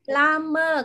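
"Lama" with the tongue curled up; drawn-out "Lama", tongue curling upward. Shown as a demonstration. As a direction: curl the tongue as you model "Lama". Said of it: "cái này cong lưỡi lên nhá".

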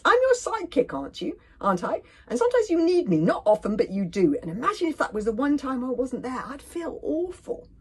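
high, loud anxious whine; moaning. A narrator's reading. Fishlegs arguing Hiccup sometimes needs him, moaning. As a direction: whine your case as loyal sidekick. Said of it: "moaned Fishlegs".

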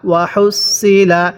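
slow "ওয়া হুসিলা" with a heavy, emphatic Arabic sad for the s; sad, not sin. Shown as a demonstration. Teacher showing the letter's articulation, "ওয়া হুসিলা" slow with emphatic sad. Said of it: "এটাকে সৎ উচ্চারণ করতে হবে".

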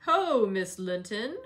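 slow loud hail from a rider; cried out. Acted. Heathcliff hailing Miss Linton from horseback, loud and slow. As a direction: call out boldly, drawn out. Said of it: "cried a deep voice".

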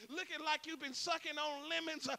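loud, driving sermon cadence; full-force preaching. Acted. Preacher rousing the church to stand up, loud preaching. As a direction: preach it hard with rhythmic hallelujahs.

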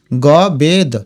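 গ বেদ as separate gaw, bed; piece by piece. Shown as a demonstration. Teacher spelling out the word, গ বেদ in separate pieces. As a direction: gap between গ and বেদ. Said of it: "উচ্চারণ কিন্তু ঋগ্বেদ".

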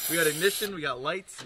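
loud, high burst of real excitement; real delight as the engine wakes; excited cheer. Real, not acted. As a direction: call it out like you finally won. Starter finally works, cheering.

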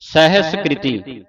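ਸਹਿਸਕ੍ਰਿਤੀ slow, with s, h, s each sounded; correct pronunciation. Shown as a demonstration. Teacher spelling it out for children, slow and distinct. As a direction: stretch ਸਹਿਸਕ੍ਰਿਤੀ syllable by syllable. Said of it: "ਤਿੰਨੇ ਅੱਖਰ ਮੁਕਤੇ ਨੇ".

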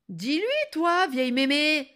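high, loud, insolent appeal; exasperated demand. Acted. Girl orders grandmother to agree, exasperated. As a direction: demand backing rudely.

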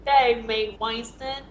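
put-on playful Australian accent. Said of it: "It sounds so Australian".

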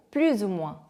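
slow "plus ou moins" with z linking plus to ou; teacher's clear "plus ou moins", z liaison before "ou"; liaison demo. Shown as a demonstration. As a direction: model "plus ou moins" carefully as plu-zou-moins. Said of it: "요것도 이제 연음을 해주고요".

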